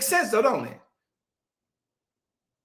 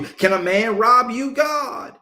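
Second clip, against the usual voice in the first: higher, louder snotty back-talk; mocking arrogance; 4 semitones higher, 5 dB louder, slower than usual. Preacher mimicking the chosen people sassing God, mock arrogant. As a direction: throw it back like a child talking back. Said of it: "like a child talking back to its parent".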